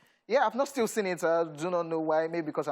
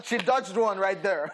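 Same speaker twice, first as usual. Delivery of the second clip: laughing; 4 semitones higher, 4 dB louder, slower than usual. Real, not acted. Gossip about Future.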